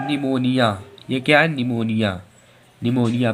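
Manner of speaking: निमोनिया said "nimonia" with a silent P; model pronunciation. Shown as a demonstration. Teacher drills निमोनिया with the class. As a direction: start निमोनिया straight on the N. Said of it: "इसे क्या पढ़ेंगे?".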